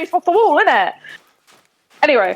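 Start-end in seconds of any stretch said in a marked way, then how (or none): 0.0-0.9 West Country lilt, "wall" said like "wull"; a light Somerset accent ending on innit. Shown as a demonstration. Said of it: "In Somerset, we say".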